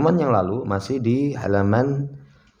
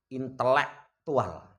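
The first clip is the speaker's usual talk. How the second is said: "intelektual" stretched out very slowly; drawn-out mocking title; much slower than usual. Real, not acted. Preacher mocking a so-called Muslim figure, "intelektual" slowly drawn out. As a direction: draw out "intelektual" in separate pieces.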